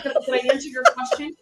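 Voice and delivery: quick mock challenge, no shout; rapid imitated comeback; pointed challenge. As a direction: press the question at her. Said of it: "She's just like".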